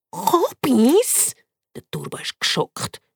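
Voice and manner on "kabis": higher, rising squeak of alarm; shocked squeak. Acted. Turbo shocked at cabbage, squeaking. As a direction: squeak in disbelief.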